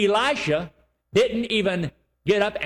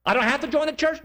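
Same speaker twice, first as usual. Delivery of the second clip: incredulous question; 7 semitones higher, faster than usual. Retold or imitated. Imagined doubter questions.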